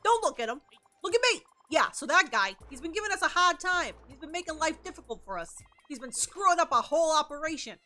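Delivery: a lightly voiced gangster asking for a hit; hint of a wiseguy voice; shady mobster. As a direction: lean in like a small-time mob boss. Voices a mob boss NPC.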